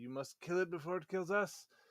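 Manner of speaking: hushed whispering. In a tabletop game, the player's character plucks a viol and whispers.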